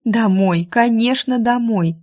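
overjoyed. A narrator's reading. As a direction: agree eagerly and happily. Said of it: "обрадовалась я".

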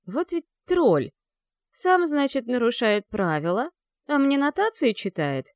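high, loud, slow exasperated exclaim; indignant outburst. Acted. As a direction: fume at the unfair teacher.

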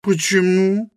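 put-on high, young woman's voice, questioning; Helena's voice. A narrator's reading. Helena asks Rosa why, in a high voice.

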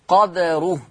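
قدره as qad-ruh with an echoed dal; Warsh-style قدره with qalqalah; Warsh sukun. Shown as a demonstration. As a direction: bounce the d of قدره, no full vowel. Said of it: "أما ورش قد".

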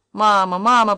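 put-on crying child. A narrator's reading. Boy crying out for his mother during the fight, sobbing. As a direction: wail it like a frightened boy. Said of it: "плакал Илья".

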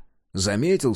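plain reading voice

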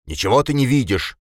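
loud, high furious shout; angry yell. A narrator's reading. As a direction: bellow it like an enraged bull. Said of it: "заорал Пегасов".

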